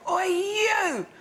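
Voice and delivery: retold shout. Woman yelling across the road at strangers, mock yell. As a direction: call out rudely, a retold yell. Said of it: "just shouts across the road".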